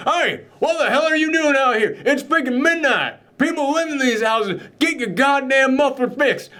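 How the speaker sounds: put-on high-pitched, irate southern accent; exaggerated southern accent. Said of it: "his southern accent is a little bit more exaggerated when I do it".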